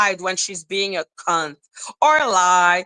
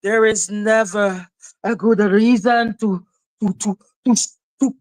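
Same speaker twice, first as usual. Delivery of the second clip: mocking impression. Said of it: "Lady Atisha being like".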